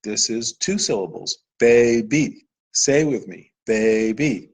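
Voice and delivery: gentle classroom demo voice; teacher demo to a child. Shown as a demonstration. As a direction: clap out day, then baby, inviting the child to repeat. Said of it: "So we could say".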